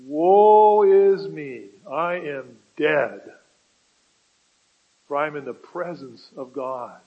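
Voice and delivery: very loud, very slow wail of dread; terrified cry. Acted. Isaiah crying out in terror before God, loud slow wail. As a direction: cry out as if you are about to die.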